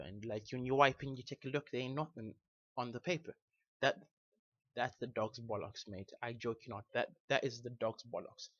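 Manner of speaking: hybrid British accent, chatty and casual; home-made British accent with matey slang. Shown as a demonstration. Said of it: "I will give you a few examples".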